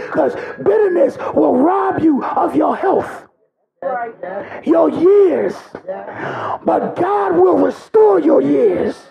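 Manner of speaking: shouted, rising sermon climax that keeps pushing; full-force preaching. Acted. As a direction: preach it hard, calling out to the congregation.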